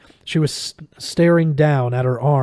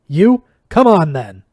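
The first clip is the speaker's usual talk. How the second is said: full-throated high battle shout; 4 semitones higher, 9 dB louder than usual. A narrator's reading. Benedict daring the shades to attack, shouting. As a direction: roar it like a warrior at last. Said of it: "he shouted".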